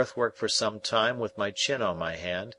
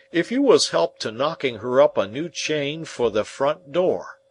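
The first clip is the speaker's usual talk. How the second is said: louder, earnest country blacksmith voice; a hearty, homely smith; Joe the blacksmith; 3 semitones higher, 4 dB louder than usual. Acted. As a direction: speak as plain, plodding Joe, weighing every word.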